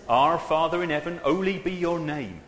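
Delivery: put-on a touch of Somerset accent; West Country accent. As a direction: read the text-speak with a Somerset lilt. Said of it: "I don't know why I want to speak Yorkshire or something, but, you know, it's Somerset".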